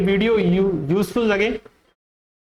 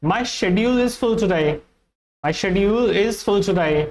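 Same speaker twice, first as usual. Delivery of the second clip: British schedule; slower than usual. Shown as a demonstration. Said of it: "British English में".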